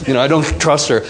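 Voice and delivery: quick, fed-up man's aside; mock frustrated man. A man giving up on his partner's words, quick mock grumble. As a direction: rattle it off like a jaded husband, lightly voiced. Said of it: "the masculine then tends to go".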